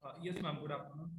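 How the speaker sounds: very faint, far-off voice on the call; weak, distant audio; barely audible. Real, not acted. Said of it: "your voice is very low".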